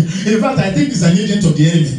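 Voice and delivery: high, rising mock warfare prayer ending in a shout; mock fiery prayer. Preacher mocking a believer praying against enemies, high shout. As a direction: pray down fire on a brother, hammed up.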